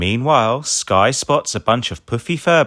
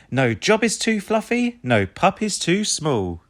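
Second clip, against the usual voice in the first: Ryder voice; 10 semitones higher than usual. A narrator's reading. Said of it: "says Ryder".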